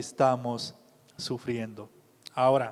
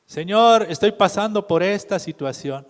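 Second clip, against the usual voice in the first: raised, pleading cry to the Lord; mock pleading prayer; 3 semitones higher, 5 dB louder than usual. Preacher voicing a believer begging God, loud plea. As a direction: beg God to take the problem away, hammed up.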